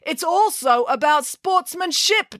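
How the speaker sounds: high, slow headmaster voice; headmaster declaring. A narrator's reading. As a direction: lay down the rule primly. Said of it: "declared the headmaster".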